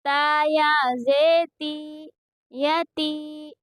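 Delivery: slow, level-pitched syllable chant; measured qaida recitation for learners to copy; Quranic spelling drill. Shown as a demonstration. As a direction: spell out each syllable with drawn-out vowels.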